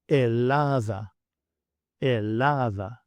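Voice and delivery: elada said slowly, stress on DA; slow Greek stress demo. Shown as a demonstration. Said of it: "where I place the stress".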